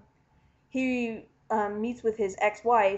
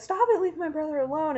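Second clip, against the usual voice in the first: retold girl's plea; 7 semitones higher than usual. Girl pleading in a retold fight.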